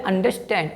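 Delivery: "अंडरस्टैंड" as one joined word, an-der-stand; correct pronunciation. Shown as a demonstration. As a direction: say "अंडरस्टैंड" with falling tune and no i before st. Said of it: "क्या बोलते हैं?".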